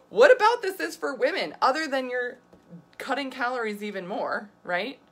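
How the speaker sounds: indignant retort. Retold or imitated. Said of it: "I was like".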